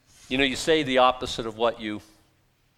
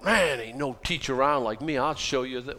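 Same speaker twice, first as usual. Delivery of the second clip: mock braggart; bragging. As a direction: puff it up like a boastful teacher. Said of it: "what would you brag about".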